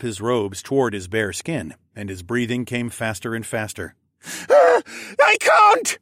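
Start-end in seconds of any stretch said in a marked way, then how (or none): 4.5-6.0 very high, drawn-out agonised wail; loud, slow, desperate cry. A narrator's reading. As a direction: wail it out in burning pain. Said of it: "he wailed".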